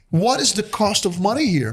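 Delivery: stiff, word-for-word newcomer question; literal translated phrasing. Retold or imitated. Immigrant asking locals about loans, stiffly literal. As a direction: say it as if translated from Portuguese. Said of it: "people don't talk like this".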